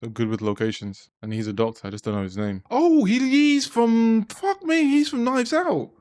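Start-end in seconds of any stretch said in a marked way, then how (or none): 2.7-5.9 loud, high, drawn-out burst of excitement; high-pitched shout of sudden recognition; excited recognition. Real, not acted. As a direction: blurt it out in real astonished delight. Suddenly recognising an actor on screen.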